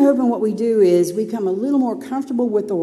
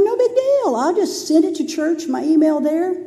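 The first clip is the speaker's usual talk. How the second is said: lightly voiced carefree past self; mock-confident thinking aloud; breezy self-confidence; 4 semitones higher than usual. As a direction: brush it off cheerfully. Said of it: "So I thought".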